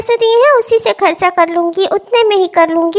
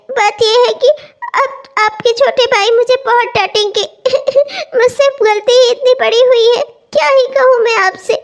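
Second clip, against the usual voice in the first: crying while telling. Acted. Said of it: "क्यों रो रही है".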